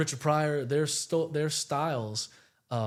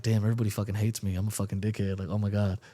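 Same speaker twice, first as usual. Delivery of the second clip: self-loathing; 5 semitones lower, faster than usual. Retold or imitated. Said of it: "You feel sad, like".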